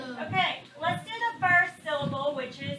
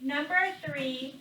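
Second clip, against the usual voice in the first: slow announcing; 3 semitones lower, 4 dB quieter, slower than usual. Shown as a demonstration. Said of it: "let's look at number three".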